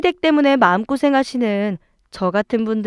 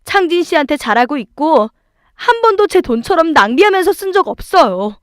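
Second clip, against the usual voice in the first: raised, emphatic protest; firm retort; 4 semitones higher, 4 dB louder than usual. Acted. Wife defending herself to in-laws, firm retort. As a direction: stand your ground, voice lifted.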